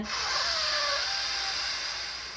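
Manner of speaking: long audible exhale, slow and full; demo deep breath. Shown as a demonstration. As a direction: breathe out deeply for the listener. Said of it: "you know, breathe in".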